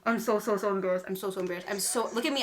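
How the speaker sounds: ordinary delivery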